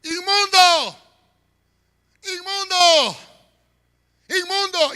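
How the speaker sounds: high shouted warning; leper's cry. Retold or imitated. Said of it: "Dice la Biblia que tenía que gritar". (grito de leproso)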